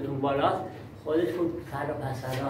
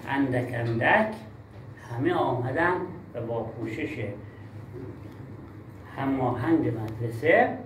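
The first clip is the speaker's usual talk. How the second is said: reading with pauses; 4 semitones lower than usual. Shown as a demonstration. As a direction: read it measured, pausing after each small group. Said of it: "یعنی مکس نکردی اختلال خواندنی هستی".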